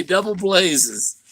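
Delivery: drawn-out mock Maverick line; slow Maverick catchphrase. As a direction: relish the catchphrase, slowly. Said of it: "The Maverick will say".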